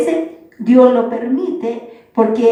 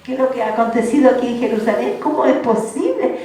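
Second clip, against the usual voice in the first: incredulous disbelief; 3 semitones higher than usual. Retold or imitated. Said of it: "como diciendo".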